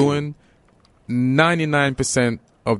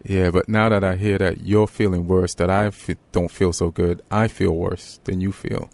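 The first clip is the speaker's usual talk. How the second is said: put-on Jamaican Englishman accent; 3 semitones lower than usual. Son topping his mom's gloom in Jamaican English accent. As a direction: lower mock Jamaican English lilt. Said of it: "why do you sound like a Jamaican Englishman".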